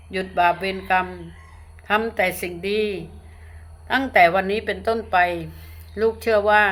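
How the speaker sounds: phrase by phrase with pauses to repeat; led prayer. Real, not acted. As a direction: lead a congregation through a measured prayer. Leads repeat-after-me conversion prayer.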